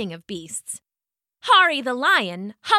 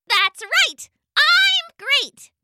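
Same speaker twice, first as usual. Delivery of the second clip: very high tiny bug voice, taunting; buzzing gnat voice; 5 dB louder, much slower than usual. Acted. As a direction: buzz it like a gloating gnat. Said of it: "buzzed the gnat".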